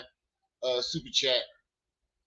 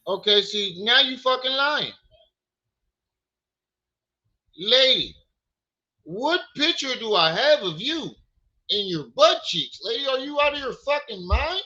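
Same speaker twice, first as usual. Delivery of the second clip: furious; 6 semitones higher than usual. Real, not acted. Streamer yelling at the woman who accused him, outraged.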